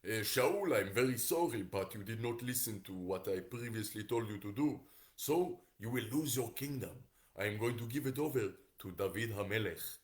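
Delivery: measured prophet with put-on accent; prophet in accented English. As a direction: pronounce the verdict in an accented voice. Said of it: "So Shmuel the prophet says".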